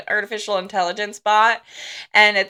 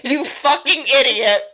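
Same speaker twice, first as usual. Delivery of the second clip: giggly, stumbling retelling; real laughter spilling into the words; laughing through a quote; 3 semitones higher than usual. Real, not acted. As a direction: fight the laughter to finish the line. Quoting while cracking up.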